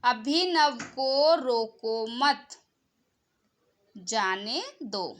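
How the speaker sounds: slow, with a clear pause at the comma; example read with pauses. Shown as a demonstration. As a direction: read it slowly and stop at the comma, like a teacher. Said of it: "जैसे". (अल्पविराम पर रुककर धीरे-धीरे पढ़ा गया उदाहरण)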